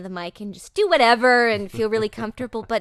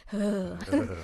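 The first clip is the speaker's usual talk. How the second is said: creeped-out groan. Retold or imitated. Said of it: "we all sort of went".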